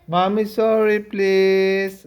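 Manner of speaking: put-on coaxing plea on a child's behalf; modelled apology. Shown as a demonstration. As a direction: show a child how to plead. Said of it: "You say sorry to Mommy". (pakiusap na humihingi ng tawad)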